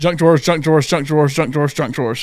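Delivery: rapid, rattled-off repeated phrase, fast. Saying a phrase five times fast when asked: saying it fast. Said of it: "Say junk drawers five times fast".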